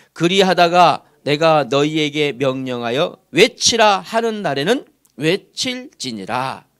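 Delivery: slow, measured reading aloud in unison; scripture reading. Acted. Pastor leading the congregation in a verse, slow scripture reading. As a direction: lead the verse phrase by phrase.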